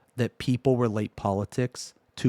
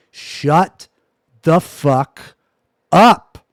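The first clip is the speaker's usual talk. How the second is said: each word split by a pause, louder and louder; 4 semitones higher, 10 dB louder, much slower than usual. Real, not acted. Streamer repeating his order to chat, loud and word by word. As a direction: hammer out every word, the last one highest.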